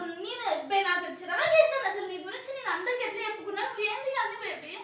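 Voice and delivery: wife crying over her husband's fake second marriage; crying outburst. Real, not acted. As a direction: pour it out while crying. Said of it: "నువ్వు ఎందుకు ఏడుస్తున్నావు".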